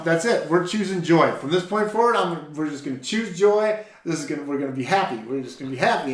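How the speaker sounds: high, loud, determined cheer; rally the team loudly, leaning on joy; loud pep talk to frustrated coworkers; excited declaration. Retold or imitated. Retelling rallying coworkers at work.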